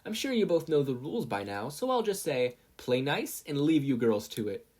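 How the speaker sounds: a wink in the voice as she starts the match; flirty referee. Acted. Referee teasing the two fighters, playfully.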